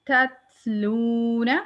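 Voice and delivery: तत्लूना slowly, with the second त released as breath; तत्लूना with audible whisper. Shown as a demonstration. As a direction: drawl तत्लूना and let air out on त. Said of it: "मैंने जब था साकिन पढ़ा".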